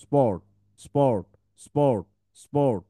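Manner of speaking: স্পট stretched very slowly; slow exaggerated spelling aloud; slow drill. Shown as a demonstration. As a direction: draw out স্পট, স্পট for the students. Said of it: "অর ট, স্পট".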